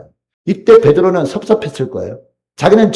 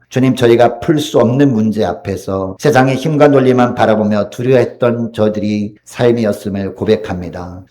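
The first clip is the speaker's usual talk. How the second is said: earnest pastoral prayer voice; closing prayer. Acted. Pastor praying aloud for the congregation, earnest and humble.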